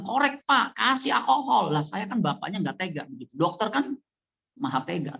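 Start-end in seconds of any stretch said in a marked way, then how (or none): 0.0-1.7 instructing. Retold or imitated. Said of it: "Pak Hendy udah bilang".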